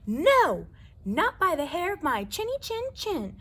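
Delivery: high, loud defiant refusal; a little pig yelling back; shouting javelina. Acted. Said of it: "shouted the first javelina".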